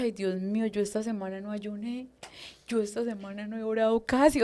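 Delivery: soft, retold anxious prayer; worried murmur. Praying to God about her skipped fast, worried murmur. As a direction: murmur it softly like a guilty confession.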